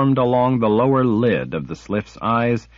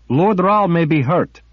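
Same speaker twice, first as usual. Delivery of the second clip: urgent plea; 9 semitones higher, 5 dB louder than usual. A narrator's reading. Kara urgent.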